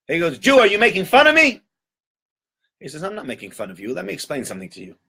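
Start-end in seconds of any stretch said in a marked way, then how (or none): 0.4-1.6 high, indignant question; high-pitched imperious accusation; affronted duke. Acted. Duke feels mocked. 3.0-5.0 much softer, measured reply; hushed, composed host; calm explanation. Acted. Host calmly answers angry duke.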